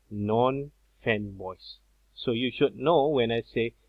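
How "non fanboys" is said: slow, deliberate term. Shown as a demonstration.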